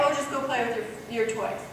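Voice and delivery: quick offhand mumble, trailing away; vague casual instruction. Shown as a demonstration. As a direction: toss it off without caring. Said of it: "She said specifically where".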